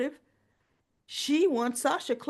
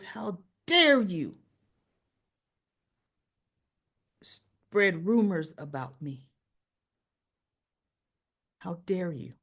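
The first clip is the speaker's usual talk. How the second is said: slow indignant accusation; outraged how dare you; 4 semitones lower, slower than usual. Retold or imitated. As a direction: drag out the accusation. Retold soap quarrel, Sasha.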